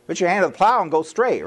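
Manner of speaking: amused, setting the saying straight; laughing correction. Shown as a demonstration. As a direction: laugh it out as you fix the quote.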